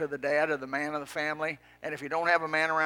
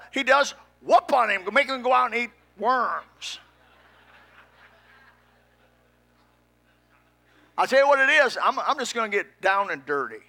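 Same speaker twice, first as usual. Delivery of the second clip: loud, raised-pitch preaching; worked-up pulpit shout; heated exhortation; 6 semitones higher, 7 dB louder than usual. Real, not acted. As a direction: push it out high and forceful.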